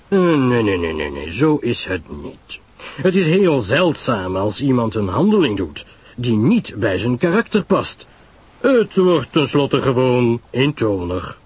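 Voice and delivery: lightly voiced detective, measured disagreement; Hercule Poirot, world-weary. Poirot tells Pamela people are predictable, mildly dismissive.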